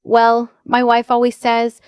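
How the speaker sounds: a fond put-on of the doctor; imitating the doctor. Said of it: "and he'd go".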